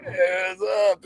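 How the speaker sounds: imitated high-pitched buzzed hello; buzzed greeting. Retelling a rock star boarding the van, buzzed greeting. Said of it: "he's all buzzed".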